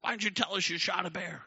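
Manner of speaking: high, strained mock holler; retold yelling. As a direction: imitate a group calling someone downstairs. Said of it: "they all start yelling at me".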